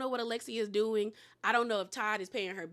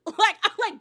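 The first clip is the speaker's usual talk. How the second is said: laughing; 8 semitones higher, 9 dB louder than usual. Real, not acted. Laughs while ranting.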